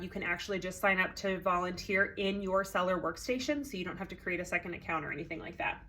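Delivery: slightly breathless talking; out of breath. Real, not acted. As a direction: speak a little short of breath. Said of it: "forgive me for sounding kind of out of breath".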